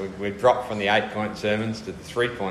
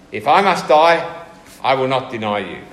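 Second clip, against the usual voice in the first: firm, raised insistence on If I must die; emphatic; 4 dB louder than usual. Acted. Peter insists to Jesus he will never deny him, emphatic. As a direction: make Peter swear it with force.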